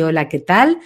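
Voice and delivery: low-pitched connected greeting. Retold or imitated. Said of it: "la voz le bajó, así".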